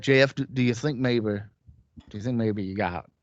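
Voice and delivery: a lightly put-on, bad interviewer accent; a clumsy, half-hearted accent for the host's question; bad Conrad accent. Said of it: "that's a really bad accent".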